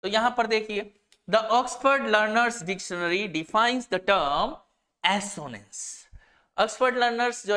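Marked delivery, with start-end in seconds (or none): 1.3-6.0 slow, deliberate dictation pace; slow definition reading. Shown as a demonstration. Teacher reads a definition so students can copy it, slow dictation. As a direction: read it out word by word for students to note down. Reads dictionary entry slowly.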